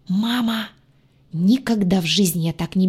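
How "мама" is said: terrified cry. Acted. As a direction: cry out in panic. Heroine cries out in terror. (испуганный вскрик)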